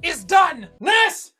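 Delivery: hammed-up German-accented quack doctor; thick mock-German doctor voice; mad German doctor. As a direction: play a theatrical German surgeon. Same German doctor character.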